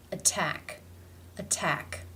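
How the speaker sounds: "Attack" with a real T opening the stressed second syllable; true T. Shown as a demonstration. Teacher comparing double-T words, true T in "Attack". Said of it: "it is a true T".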